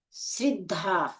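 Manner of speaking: "श्रद्धा" drawn out with ri for ra; slow demonstration of "श्रद्धा" misread as sriddhaa; wrong i-vowel pronunciation. Shown as a demonstration. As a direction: say "श्रद्धा" slowly as srid-dhaa. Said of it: "श्रद्धा नहीं होता".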